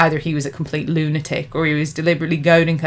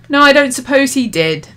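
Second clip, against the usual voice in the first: chuckling; 8 semitones higher, 6 dB louder than usual. A narrator's reading. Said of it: "the demon chuckled".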